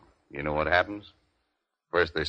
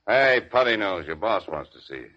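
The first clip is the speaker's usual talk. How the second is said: calling out; 4 semitones higher, 4 dB louder than usual. Acted. Cop calls out into hallway.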